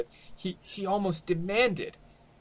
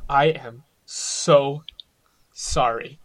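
slow, drawn-out sorry; contrite apology; 5 dB louder, much slower than usual. Acted. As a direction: stretch out a heartfelt apology. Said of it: "just say".

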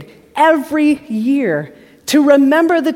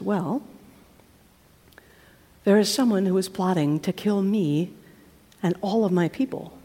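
much softer, solemn queen; hushed, earnest queen; grave, hushed plea; 3 semitones lower, 5 dB quieter than usual. Acted. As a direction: confess the danger quietly. Esther reveals plot to the king.

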